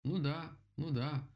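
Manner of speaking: high called-out agreement; loud agreement. A narrator's reading. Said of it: "громко согласилась Мишка".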